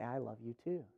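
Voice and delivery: low, very soft reply; tender, emotional. Acted. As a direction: answer a spouse in a moved hush. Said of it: "and you're emotional".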